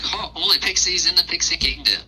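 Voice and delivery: high, haughty pixie voice; pixie guard. Acted. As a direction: sniff at them like a snooty pixie. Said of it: "He's like".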